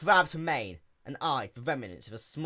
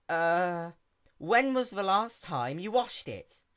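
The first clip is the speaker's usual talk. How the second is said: a hint of an eager, higher young pony; quick, bright-eyed little mechanic pony; lightly voiced sea pony; 7 semitones higher, 4 dB louder, slower than usual. A narrator's reading. Sea pony introduces herself to the princess in a lightly raised voice.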